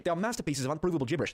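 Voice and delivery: badly faked British accent. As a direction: quote it in an amateur British accent. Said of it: "This is not what he sounds like at all".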